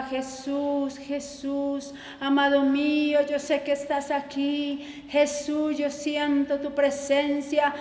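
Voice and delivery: begging Jesus to be taken out of hell, understated; retold tearful plea. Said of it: "estaba llorando, y ella gritaba".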